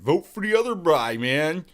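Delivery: mock the candidate's plea; Joe Biden impression. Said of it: "That's Joe Biden".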